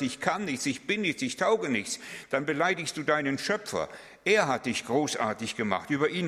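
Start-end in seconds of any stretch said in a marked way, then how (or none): 0.0-2.0 falsely humble. Pretend. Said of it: "wenn du sagst".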